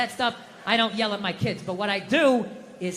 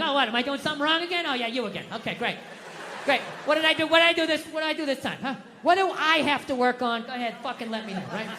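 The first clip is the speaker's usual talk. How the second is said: sarcastic husband; 2 semitones higher than usual. Retold or imitated.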